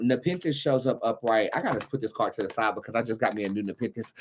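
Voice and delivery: ordinary delivery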